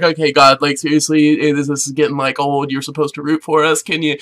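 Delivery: low, subdued grumble to God; mock weary appeal; fed-up pleading. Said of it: "they would be like".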